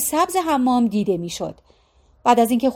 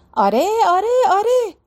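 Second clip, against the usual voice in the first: dismissive yeah-yeah; 10 semitones higher, 3 dB louder than usual. A narrator's reading. Mother scornfully dismisses daughter's reassurance.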